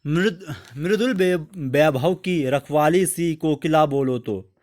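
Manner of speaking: slow, measured verse reading; poem recitation. Acted. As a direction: recite each line slowly, with weight. (धीमे, गंभीर कविता पाठ)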